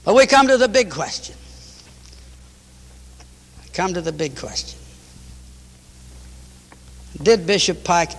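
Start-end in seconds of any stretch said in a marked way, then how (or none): 0.0-1.3 announcing. Real, not acted. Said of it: "repeated line, louder first". 3.6-4.8 hushed. Real, not acted. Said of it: "repeated line, hushed second".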